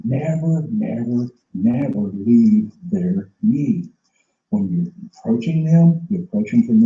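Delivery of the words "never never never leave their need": never said three times, falling each time; slow, hammering never leave their need; emphatic never. Shown as a demonstration. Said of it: "repeated emphatic instruction".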